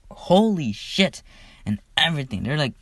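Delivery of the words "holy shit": stretched-out, louder, higher Holy shit; amazed crowd. Retold or imitated. Crowd stunned by the dragon, drawn-out amazed exclamation. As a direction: let the crowd gasp it out slowly.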